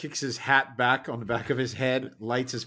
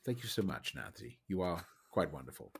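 softer, sugary thanks through a grin; softer mock-sweet thanks, grinning; broad grin; 4 semitones lower, 8 dB quieter than usual. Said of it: "I grin very broadly at Faye and I say".

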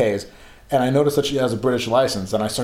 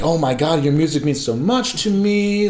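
gushing fan. Retold or imitated. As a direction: imitate yourself babbling at your idol. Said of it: "I'm talking to her as I'm saying".

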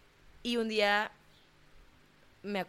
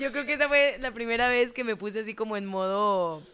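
laughing; 3 semitones higher, 4 dB louder than usual. Real, not acted. Laughing at own story.

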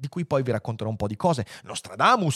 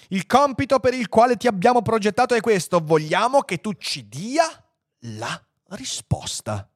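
raised voice, slowing to the end; composed formal request; 8 semitones higher than usual. A narrator's reading. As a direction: state the task with measured ceremony. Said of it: "assunse un'aria di grande compostezza". (richiesta solenne e composta)

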